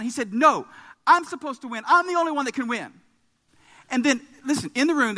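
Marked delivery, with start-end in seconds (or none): 0.3-2.9 put-on high, louder protesting kid; re-enacted childish tantrum; enraged child. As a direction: insist like an outraged little boy. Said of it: "Grady is just becoming enraged".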